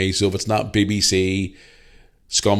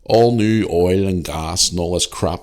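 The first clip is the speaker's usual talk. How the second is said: mocking protester slogan; 4 dB louder, slower than usual. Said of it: "He says".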